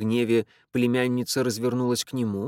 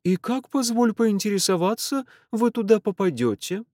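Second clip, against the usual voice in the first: higher, mocking aunt's voice; aunt's ironic question; 10 semitones higher, 3 dB louder than usual. A narrator's reading. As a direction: ask with dry disbelief. (тётка с насмешливым изумлением)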